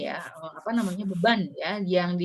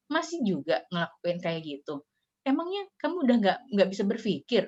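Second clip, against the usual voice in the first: cutting scolding. Retold or imitated. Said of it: "bahasa-bahasa yang, eee, menyayat-nyayat".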